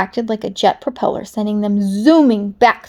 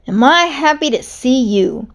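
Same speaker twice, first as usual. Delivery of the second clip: beaming; 3 semitones higher than usual. Acted.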